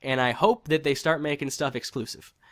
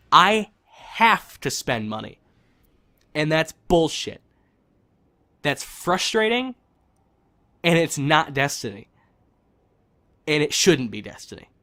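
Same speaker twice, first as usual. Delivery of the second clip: heated frustration; 4 dB louder than usual. Real, not acted. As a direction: vent your frustration, biting each phrase. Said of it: "I apologize for how heated and seemingly angry".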